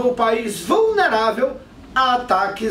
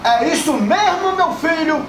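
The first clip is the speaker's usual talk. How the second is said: folksy politician voice; 3 semitones higher than usual. Acted. Skit, candidate answers reporter.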